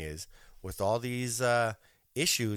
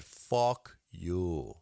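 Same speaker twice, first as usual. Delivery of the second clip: mock dismissal; 4 semitones lower than usual. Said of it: "They said".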